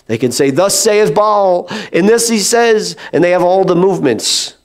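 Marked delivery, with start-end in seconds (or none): 0.5-3.0 slow, lofty mock prophecy; mock prophet. False prophets sounding spiritual, slow and lofty. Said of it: "They can sound very spiritual".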